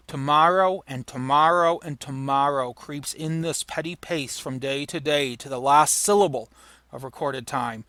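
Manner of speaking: soliloquy reading. Acted. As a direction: let the weariness sink in.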